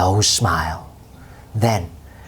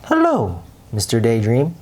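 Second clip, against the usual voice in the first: trumpeting elephant. Acted. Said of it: "trumpeted the elephant".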